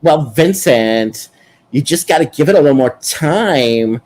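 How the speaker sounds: put-on New York gay accent. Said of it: "Why are you talking like this?".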